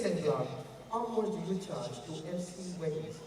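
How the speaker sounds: a lightly deep rich big man. Pretend. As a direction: sound like money talking. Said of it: "your voice must deep".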